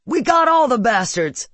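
high, loud victory yell; triumphant whoop. A narrator's reading. Son cheers as the last balloon explodes, whooping. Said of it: "Clarissa's son whoops".

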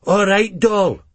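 a workie calling out; mock catcall. A narrator's reading. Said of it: "one shouts".

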